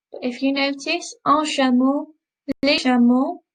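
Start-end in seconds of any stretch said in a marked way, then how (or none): 1.2-3.4 chameau and chameaux both ending "sha-MOH", the X silent; same end sound. Shown as a demonstration. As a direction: keep les chameaux sounding exactly like chameau. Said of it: "it doesn't change the end sound".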